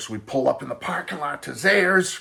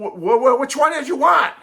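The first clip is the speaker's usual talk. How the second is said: much higher, louder, stuttering mock mom; hammed-up mom tripping over which; mom stammering; 11 semitones higher, 5 dB louder than usual. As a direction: sputter the question like a flustered mother. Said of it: "Mom's going".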